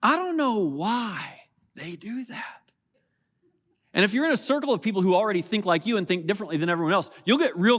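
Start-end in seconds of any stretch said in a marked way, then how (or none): 0.0-2.7 higher, slow mock bafflement; slow, lightly mocking head-shake; dismissive puzzlement. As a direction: act baffled at those other people. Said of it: "we will say something like".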